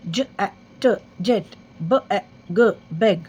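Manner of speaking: slow letter-by-letter blend ल, ए, ड into लेड; phonics sounding out. Shown as a demonstration. Teacher sounding out a word for young learners, slow and clear. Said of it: "three letter words".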